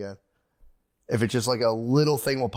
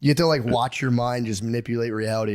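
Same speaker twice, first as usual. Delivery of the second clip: ordinary talk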